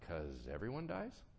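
understated answer with a questioning lift; tentative answer. Acted. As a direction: offer it quietly as a questioning reply. God's answer to personal grief.

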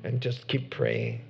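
pastor praying gently to close; closing prayer. Real, not acted.

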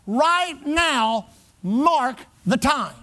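"Right now" held, then MARK, THE, TIME slowly spaced; slow and weighty on "mark the time"; emphatic revivalist. Retold or imitated. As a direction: imitate a healing evangelist's deliberate command. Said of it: "he'd emphasize it over and over".

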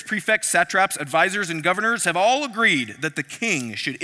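hammed-up royal courtiers pleading; pompous officials petitioning. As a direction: flatter the king grandly, pushing the edict.

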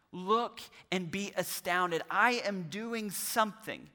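slow, deliberate delivery of a Bible verse; emphatic scripture recitation. Acted. Preacher voicing God to Habakkuk, slow and emphatic. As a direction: declare it word by word, unhurried.

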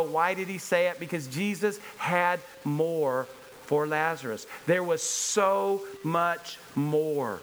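preacher building in intensity; impassioned preaching. Acted. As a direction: drive the scripture reading forward with rising fervor.

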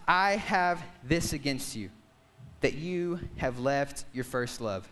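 slow, weighty Bible reading; scripture reading. Acted. Reads scripture aloud.

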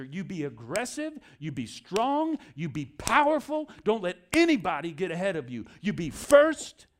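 voicing the culture's push to win, building to a shout; mock pep-talk build. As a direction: pump it up like a drill sergeant. Parroting culture's aggressive message.

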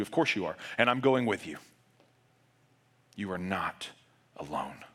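a quiet promise that fades; gentle reassurance. Retold or imitated. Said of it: "Jesus responds to you".

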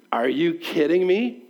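slow, rising incredulous question; mildly acted "you can't be serious" tone; mock incredulity. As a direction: play the disbelieving listener, drawn out. Acting out the listeners' disbelief.

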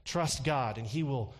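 breathy televangelist voice; lightly breathy soothing preacher; Joel Osteen breathy voice. Retold or imitated. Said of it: "I start to talk in a real breathy voice when I think about imitating Joel Osteen".

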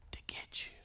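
breathy whisper of a predator; whispered menace. Acted. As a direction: whisper it like a threat. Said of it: "beast of prey image".

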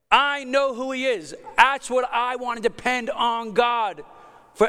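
heartfelt pulpit declaration; fervent preaching. Real, not acted. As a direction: declare it fervently, building phrase on phrase. Preaches with raised intensity.

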